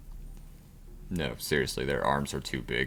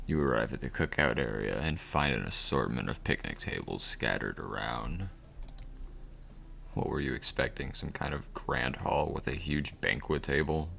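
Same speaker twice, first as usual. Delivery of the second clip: game narrator. Acted.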